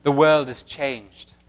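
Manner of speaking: a hint of a British accent. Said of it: "That's also a woman".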